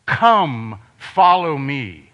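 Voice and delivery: God beckoning. Acted. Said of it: "the voice of God beckoning you".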